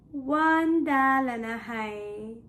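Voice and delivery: weary, drawn-out falling delivery; tired. Shown as a demonstration. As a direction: let the words droop slowly as if exhausted. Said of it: "I'm so tired".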